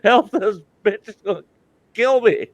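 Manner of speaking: retold mock panic on the table; mock yelling for help. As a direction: yell for rescue, half-joking. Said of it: "I started yelling".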